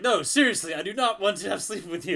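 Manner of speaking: hammed-up Drax protesting loudly; Drax insisting. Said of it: "he's like".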